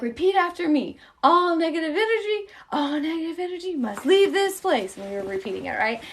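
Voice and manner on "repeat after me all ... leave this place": put-on child's incantation. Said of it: "She's like".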